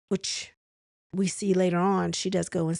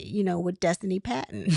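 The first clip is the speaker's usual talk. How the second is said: laughing. Real, not acted. Misreading a name, laughs.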